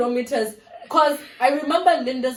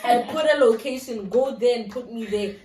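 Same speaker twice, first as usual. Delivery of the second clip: exasperated retort to a driver. Retold or imitated. Passenger scolding a clueless taxi driver, exasperated. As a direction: tell him off, fed up.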